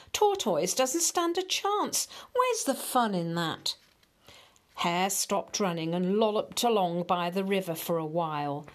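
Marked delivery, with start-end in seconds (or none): 0.1-3.8 high, scoffing and huffy. Acted. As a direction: scoff at how easy it is. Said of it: "he huffed".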